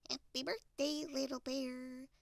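lightly voiced duck, held high; cheery Duck. Duck greets Little Bear on his birthday, high duck voice.

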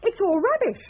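scornful dismissal. Acted. Scoffing at occult research.

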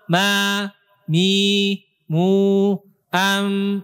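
ma, mi, mu, am with lips barely closing on m; weak lip contact. Shown as a demonstration. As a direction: let the m go slack in "ma, mi, mu, am". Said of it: "Ini lemah".

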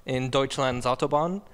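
slipping mock German accent. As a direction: attempt a German accent that wobbles. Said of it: "My accent went to crap".

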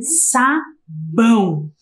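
"Sabão" drawn out, nasal ending. Shown as a demonstration. Teacher showing children the tilde's sound, nasal "Sabão". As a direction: stretch "Sabão" slowly, ringing the ão through the nose. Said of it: "parece que a gente tá falando com o nariz".

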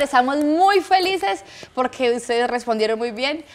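loud, punchy host announcement; hyped giveaway announcement. Real, not acted. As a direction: pump up the audience.

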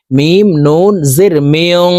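slow spelling, ending মেয়ং in a long hidden nasal n; nasal ghunnah. Shown as a demonstration. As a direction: hold the nasal end of মেয়ং, humming through the nose. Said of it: "নাকের ভিতরে লুকাইয়া গুন্নার সহিত পড়ব".

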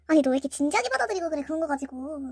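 quick brushing-off quarrel tone; acted dismissive picking a fight. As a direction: wave off her hurt carelessly. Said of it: "남자 문제로 시비를 걸게". (친구에게 시비 거는 가볍게 무시하는 말투)

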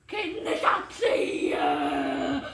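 loud frustrated outburst; exasperated shout. Real, not acted. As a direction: throw up your hands and yell. Gives up the poem.

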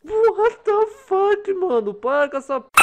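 loud, high shocked outburst; freaked-out yell. Real, not acted. Freaking out at game.

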